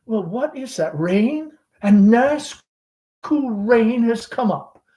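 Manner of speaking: lightly voiced chatty Southern belle mother; Southern mother hostess. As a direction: gush over the guest like a fading belle. Amanda noticing the rain.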